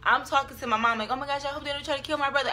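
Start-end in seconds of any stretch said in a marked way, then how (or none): 1.1-2.5 fast, higher, mildly panicked retelling; retold freaking out. Talking to mom about her brother, mildly reenacted freak-out. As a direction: rush it with a touch of panic. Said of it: "I'm, like, freaking out".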